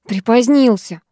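насмешливо передразни «Припозднился»; фыркни, повторяя его «Припозднился»; фыркнув. Acted. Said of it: "фыркнула я". (насмешливое «Припозднился» с фырканьем)

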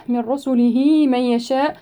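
من رسله with the n fully merged into the r, no nasal hum, slowly; من رسله with full idgham, no ghunna. Shown as a demonstration. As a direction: run من into رسله as مرّسله. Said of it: "إدغام النون الساكنة في الراء إدغاما كاملا بغير غنة".

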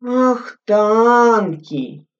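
mildly lazy drawn-out echo. A narrator's reading. Corporal lazily echoing the lieutenant, unhurried. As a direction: ask back without caring. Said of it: "лениво переспросил Святкин".

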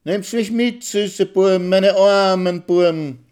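a pitying little squeal, stretched on meine armen Burm; fine high squeak. A narrator's reading. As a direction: squeal it out to the soldiers with pity. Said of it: "quietscht mit ihrer feinen, melodiösen Stimme".

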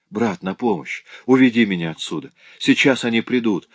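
high, frightened babble; faint delirious plea. Acted. Бредящая сестра умоляет брата о помощи, испуганно. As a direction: plead weakly in delirium. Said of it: "пролепетала тыква слабеющим голосом".

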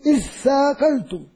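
slow "اثاقلتم", doubled tha held; starting the word. Shown as a demonstration. Teacher shows starting on the word, slow. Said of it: "لما تبدأ بها شو بتقول".

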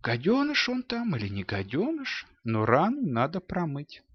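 a mother calmly overruling her husband; спокойная мать возражает Матису; steady mother. A narrator's reading. Mother calmly defies Mattis.

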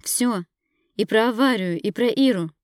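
high, loud, furious shouting; furious accusation. Acted. Wife shouting at her husband about the crash, furious. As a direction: throw every charge in his face.

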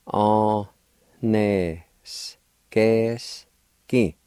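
On with the N nasalized, s, ke whispered. Shown as a demonstration. Teacher showing the nasal N in the word builder. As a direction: nasalize the N in On and let s, ke go breathy. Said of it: "The N sound is nasalized".

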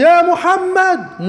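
high, drawn-out call "يا محمد"; loud call. Retold or imitated. The Bedouin shouting to the Prophet, loud drawn call. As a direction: call out the name loudly and slowly. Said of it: "بصوت عالي".

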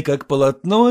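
ordinary delivery

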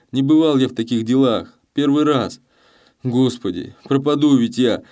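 put-on a terrified young peasant begging the thief; pleading in fear. A narrator's reading. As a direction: beg for your life, voice straining. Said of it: "взмолился".

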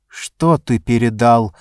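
cold, controlled question; icy. Acted. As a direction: ask it coldly, no warmth. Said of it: "ледяным голосом спросила она".

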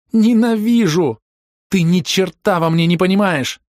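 high, loud hateful outburst, drawn out at the start; girl screaming in rage; furious scream. A narrator's reading. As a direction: scream it at him. Рёка screaming at narrator.

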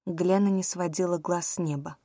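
plain reading voice

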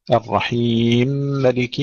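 slow الرحيم ملك fused, shortest long i; merged mim, qasr. Shown as a demonstration. Teacher showing Susi's idgham, short madd in الرحيم ملك. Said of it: "القصر والتوسط والمد".

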